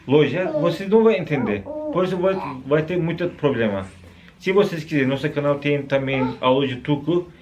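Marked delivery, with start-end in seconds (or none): none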